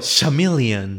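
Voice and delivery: "chameleon" slowly as "sha-MIL-ian"; mispronounced word. Retold or imitated. Recalling another verbal tic, slow mispronounced "chameleon". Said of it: "aquel maje que no dijera".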